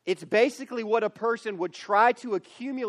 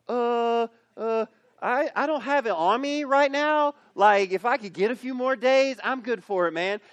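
nervous stammer; 4 semitones higher than usual. Retold or imitated. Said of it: "clearly the guy's like".

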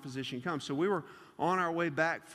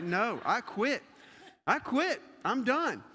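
slow refusal climbing higher in pitch; mock defiant quitting; 4 semitones higher, slower than usual. JoJo refusing two more slices, quitting. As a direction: imitate a kid flatly quitting.

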